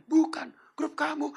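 high, loud, slow retort; big, drawn-out contradiction; emphatic correction. Acted. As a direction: drag out the correction for comic punch. Corrects tour leader emphatically.

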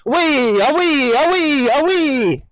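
high, loud calls to the dog; bright herding call; called dog command. Shown as a demonstration. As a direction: call it out across the field. Calling dog in demo.

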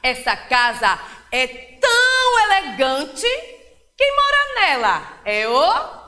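slow, sing-song poem reading with long pauses; teacher reading a rhyme aloud to a class; poem for children. Acted. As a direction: recite it to little ones, savouring each rhyme.

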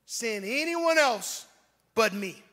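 slow, loud, stretched-out plea; begging. Acted. Moses literally begging God to send someone else, pleading. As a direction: drag out the words as an imploring cry. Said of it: "He's literally begging God".

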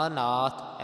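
ਅਨਾਥ with a short first a, long second aa; pronunciation demo. Shown as a demonstration. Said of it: "ਐੜੇ ਨੂੰ ਕੰਨਾ ਨਾ ਲੱਗ ਜਾਵੇ".

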